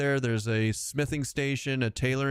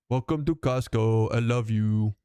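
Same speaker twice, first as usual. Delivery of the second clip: ogre voice; 3 dB louder than usual. Pretend. Ogre greeting gag.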